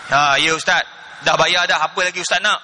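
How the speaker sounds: low, curt grudging reply; mock grumpy husband. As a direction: imitate an annoyed man answering the phone. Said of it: "Marah ni".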